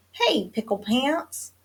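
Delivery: a holler with little added volume; mild holler. A narrator's reading. Mama calls out to Pickle Pants, mildly hollering. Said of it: "hollered Mama".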